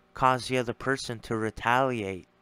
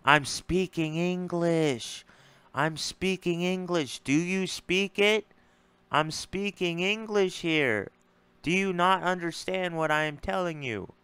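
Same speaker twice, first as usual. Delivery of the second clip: higher, slow, spelled-out exasperation; over-pronounce it like talking to a child; exasperated retort; 5 semitones higher than usual. Retold or imitated. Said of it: "That's why I was saying".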